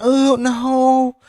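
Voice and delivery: a friend mocked as a crying baby; mock whining. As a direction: ham up a racer begging not to drive the truck. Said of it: "He up there crying".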